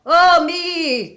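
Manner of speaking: high, loud ghostly wail from the chimney. A narrator's reading. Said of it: "cried the voice".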